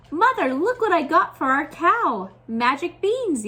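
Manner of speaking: put-on a boy calling out, thrilled and loud; boy proudly showing off his find, excited yell. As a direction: burst in with the news, eager. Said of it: "yelled Jack".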